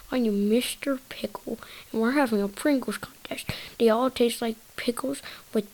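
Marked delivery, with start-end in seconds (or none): 0.1-3.5 Mister Pickle teacher. Pretend. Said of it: "here comes the teacher".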